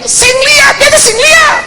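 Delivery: very high, loud shouting back; yelled reply. Retold or imitated. Drunk brother answers his passenger's warning, shouting. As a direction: holler it over the traffic.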